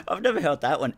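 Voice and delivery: bursting into loud, high laughter; amused laughter. Real, not acted. Host reading a viewer's comment on his accent, laughing out loud. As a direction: crack up mid-remark, real laugh.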